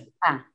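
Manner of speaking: "Guía" in two syllables, GUÍ... a; hiatus. Shown as a demonstration. Teacher shows a student the correct guía, hiatus. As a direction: separate the stressed Í from the a in "Guía". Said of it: "ahí genera un hiato".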